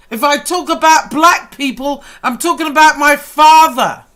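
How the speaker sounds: pressing each line harder, fired up; getting wound up. Real, not acted. Defending his mixed family to the critics, heated and loud. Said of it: "'cause I'm getting more wound up".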